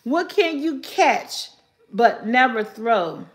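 slow riddle read. Shown as a demonstration. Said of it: "repeats riddle slowly".

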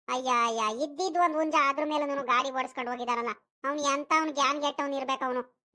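low-pitched grumbling dismay; dismayed lament. Acted. Grandmother laments the injured rooster. (ತಗ್ಗಿದ ದನಿಯಲ್ಲಿ ಮರುಗುತ್ತಾ ಗೊಣಗುವುದು)

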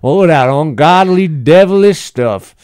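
high, loud Southern twang; Southern churchgoer complaining. Pretend. S0 as Big Earl complaining to Pastor Dave, loud Southern twang. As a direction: complain to the pastor like a country zealot. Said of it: "this Southern Midwest guy".

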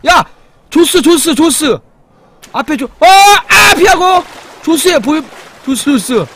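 loud high warning cries; alarmed shouting. Real, not acted. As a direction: yell about the shark in panic. Shark attack, yelling in alarm.

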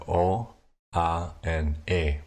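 "O", "A", "E" said slowly and distinctly, one by one; slow vowel demo. Shown as a demonstration. Tutor introducing the three vowels, slow and careful. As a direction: spell out "O", "A", "E" slowly and clearly. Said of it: "the vowels themselves".

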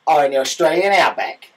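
loud, badly faked Australian accent; hammy Australian twang, badly done; horrendous Australian accent. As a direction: do a terrible Aussie accent. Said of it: "I did a horrendous Australian accent".

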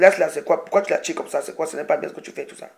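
loud, indignant retold telling-off; scolding shout. Warriors scolding a man at a party, loud and indignant. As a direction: stop a man manhandling a woman.

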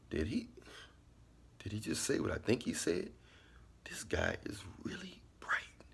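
softly incredulous, pitch climbing; amazed listener. Acted. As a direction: voice someone quietly amazed at what they heard.

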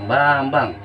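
loud, drawn-out name to copy; emphatic prompt. Shown as a demonstration. Models the name for repetition.

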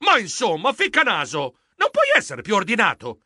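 exasperated complaint. Acted. Geronimo scolds his untidy friend after slipping, exasperated. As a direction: scold him for the mess.

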